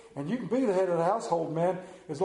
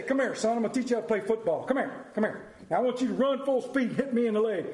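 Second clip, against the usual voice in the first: father coaching; 5 semitones higher, faster than usual. Retold or imitated. Father teaching toddler son football.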